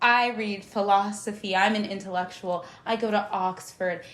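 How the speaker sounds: lightly put-on Oxford intellectual, measured; mock intellectual. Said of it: "now you're the type of bitch".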